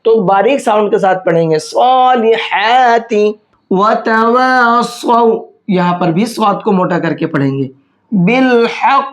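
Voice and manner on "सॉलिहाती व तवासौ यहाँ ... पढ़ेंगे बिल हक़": slow, chanted tajweed recitation; Quranic recitation. Shown as a demonstration. Teacher chanting the verse for students, slow and melodic. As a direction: recite it slowly in melodic Arabic.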